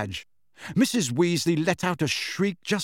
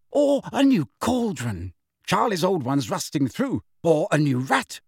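lightly voiced doting mum, higher pitch; eager mother; 5 semitones higher than usual. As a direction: offer treats eagerly, pitched up. Excited mother listing gifts.

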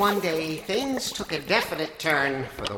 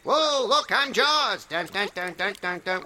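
playful shark theme hum, higher; Jaws impression; 4 semitones higher than usual. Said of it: "wanna see my Jaws impression".

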